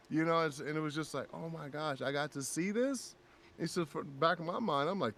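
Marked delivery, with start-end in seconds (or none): 1.3-3.2 soft, higher-pitched disbelief; hushed, amazed wonder; quiet awe. Retold or imitated. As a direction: marvel softly to yourself. Retold awe at the moment.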